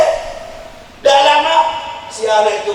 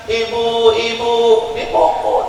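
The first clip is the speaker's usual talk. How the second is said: put-on child crying out; 5 semitones higher than usual. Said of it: "Dia nangis sambil teriak".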